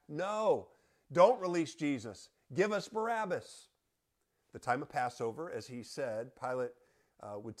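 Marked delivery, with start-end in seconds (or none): 0.1-3.7 high, loud mob yell; retold crowd shout. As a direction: call out for Barabbas like the crowd. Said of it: "so they shout back".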